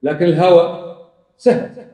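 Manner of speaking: normal talking voice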